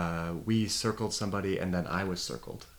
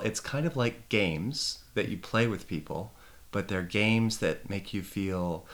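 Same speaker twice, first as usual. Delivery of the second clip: slow, searching explanation that peters out; slow down and leave the sentence hanging; trailing off; slower than usual. Retold or imitated. Speaker replays their own attempt at explaining authentic relating, trailing off. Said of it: "I trail off".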